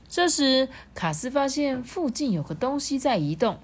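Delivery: lively storybook reading; animated narrator, lifting the key moments; story narration. A narrator's reading. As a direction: tell it expressively to small listeners. Reads a story to children.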